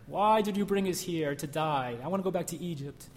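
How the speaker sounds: grumbling. Retold or imitated. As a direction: gripe like a hammed-up whiner. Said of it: "how the Israelites were grumbling in the desert".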